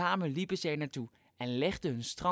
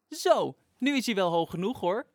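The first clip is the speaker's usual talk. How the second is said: a touch louder satisfied call; 3 semitones higher, 6 dB louder than usual. Acted. Sas calls from Flop's back that the tower is high enough, mild call. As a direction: call down pleased. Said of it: "riep Sas".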